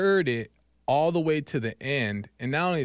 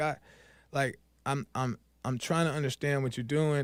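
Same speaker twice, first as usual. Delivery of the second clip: acted near-crying voice, quieter; 5 dB quieter than usual. Acting out a prayer from the story just before the capture, retelling a near-crying prayer. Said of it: "he's like crying almost".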